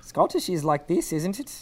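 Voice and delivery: shaky attempt at Scottish; badly faked Scottish accent. Shown as a demonstration. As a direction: try out a Scottish accent, unsure of it. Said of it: "did you say Scottish earlier".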